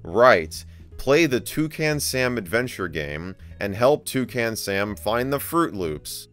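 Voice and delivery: loud, slow, over-enunciated commands; hammy command reading. Pretend. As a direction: read the training lines like barking orders at a pet. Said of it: "we just have to read this out here".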